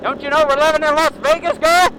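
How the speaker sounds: mock exasperation at Candy; exasperated aside. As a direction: scold her under your breath, then build. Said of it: "I'm, like, thinking".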